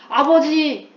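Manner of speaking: 아버지를 크게 외쳐 부르는 아들 연기; 연극하듯 큰 소리로 부르기; 극적으로 부르기. Acted. 아들이 제우스를 부르는 장면. (과장되게 크게 외치는 아들 흉내)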